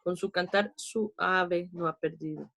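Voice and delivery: verse read with "suave" split su-a-ve; diaeresis reading. Shown as a demonstration. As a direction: pull the u and a apart in "suave". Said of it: "debo decir suave".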